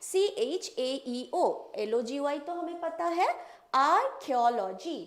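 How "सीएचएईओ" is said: letters drawn out very slowly; slow spelling. Shown as a demonstration. Teacher stressing the tricky letters to remember. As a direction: spell it out one letter at a time. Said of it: "ध्यान रखना है".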